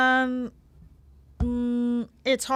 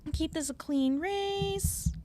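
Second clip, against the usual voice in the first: slightly higher, lightly imitated heroine; Amy Rose; 4 semitones higher, 4 dB quieter than usual. Quoting Amy to rival characters, lightly imitated in higher voice. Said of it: "she says things like".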